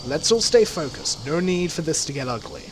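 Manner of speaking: steady, even, unhurried calm; level and moderate. Acted. Carter calming the armed runners, level and moderate. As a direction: keep it cool and measured, defusing the standoff. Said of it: "her voice level and moderate".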